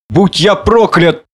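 high, very drawn-out exclamation; drunken oath. A narrator's reading. Drunk man struck by a sudden idea, exclaiming. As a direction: swear slowly on a sudden idea.

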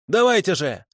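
high-pitched cry; defiant cry. A narrator's reading. Prisoner bares his chest to his captors, crying out defiantly. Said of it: "крикнул он".

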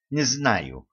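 ordinary delivery

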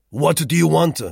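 loud, high curt snap; snapped. A narrator's reading. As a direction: bite the question off at the intruder. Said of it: "he snapped".

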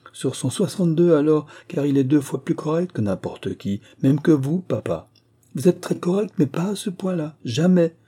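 put-on high, animated girl's voice with emphatic bursts; cheeky younger daughter, teasing. Younger daughter teases her father. (jeune fille taquine, voix aiguë et animée)

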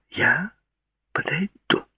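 put-on sweet, insistent young woman; Claudia's voice. A narrator's reading.

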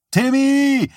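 high, loud shout of a name. Acted. Boy shouting to his idol to watch him. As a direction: yell it across the ice. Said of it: "schrie Johnny".

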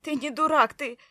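high, loud, sobbing break; through a sob. A narrator's reading. Wife sobbing at her husband, high and loud. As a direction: choke it out through tears. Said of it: "Всхлипнув".

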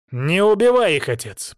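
insist, pleading loud; demanding. A narrator's reading. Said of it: "потребовал Велизар-младший". (требовательно и громко)

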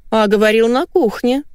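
high, rising suspicion; wary wife. A narrator's reading. Wife catching husband's changed story, wary. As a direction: challenge him warily, voice going up. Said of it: "насторожилась Валя".

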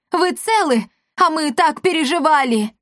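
high anxious gladness; relieved excitement. Acted. Barianna greeting the rescued apothecary, relieved. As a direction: rush to him, relieved.

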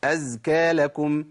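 drawn-out vowels in أزكى, long and slow; stretched slow. Shown as a demonstration. Teacher demonstrates slow recitation. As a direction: stretch أزكى لكم out slowly. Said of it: "الزمن المظبوط".

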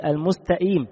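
المستقيم with the ق said as a glottal stop, almusta'im; qaf as hamza. Shown as a demonstration. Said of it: "أو ينطق القاف همزة".

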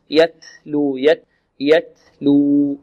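slow "يتلو" with air released on the ت; ت with flowing breath. Shown as a demonstration. Teacher repeats the model for students, flowing breath on ت in "يتلو". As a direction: hold "يت", let the breath run, then "لو". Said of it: "هو جريان النفس".

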